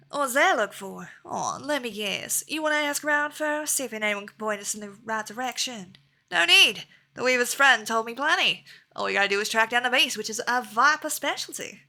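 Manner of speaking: put-on southern accent. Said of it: "give him a southern accent".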